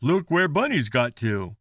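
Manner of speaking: mild, patient remark; how the parents might have said it; calm grown-up voice. Acted. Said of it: "They didn't say".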